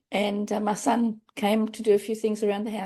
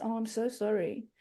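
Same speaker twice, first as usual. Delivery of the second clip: softer, pitying "Oh, I'm so sorry" with a stretched "so"; puppy-dog pity; 7 dB quieter than usual. Retold or imitated. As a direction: coo it with a puppy-dog look, quietly. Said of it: "puppy dog looks".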